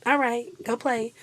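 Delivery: put-on patient talk as if to small kids; teacher voice. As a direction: settle squabbling children calmly. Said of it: "The Miss Sierra slips out so easily".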